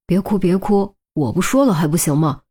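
softened apology. Acted. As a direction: soothe her, backing down. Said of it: "连忙缓和口气道歉".

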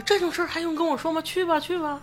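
high-pitched, fast boss brushing it off. Pretend. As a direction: play a breezy dismissive boss. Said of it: "这领导没说：". (轻快不耐烦的领导腔)

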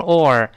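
"or" with the tongue curled at the end; r-coloured vowel. Shown as a demonstration. Teacher breaking order into parts, r-coloured vowel. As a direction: isolate "or" with its r. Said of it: "第一个O啊，读成or".

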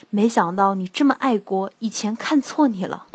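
gravely spoken with mock depth; mock solemn. Patting his shoulder after his speech, mock solemn praise. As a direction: play it deep and earnest. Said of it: "深沉地说".

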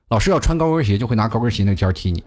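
usual speaking voice

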